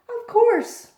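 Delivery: eager promise. Acted. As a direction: jump in to reassure. Eager repeat of of course.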